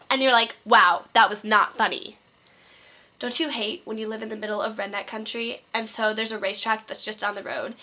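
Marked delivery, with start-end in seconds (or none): 0.6-2.2 deadpan annoyance. Retold or imitated. Annoyed at prank.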